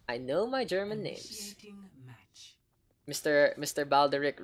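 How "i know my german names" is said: slow playful whisper. Pretend. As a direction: whisper it like a secret. Boast repeated as whisper.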